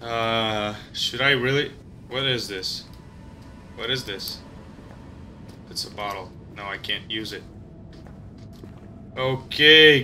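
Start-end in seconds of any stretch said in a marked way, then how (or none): 0.0-7.4 whispering. Real, not acted. Tense searching.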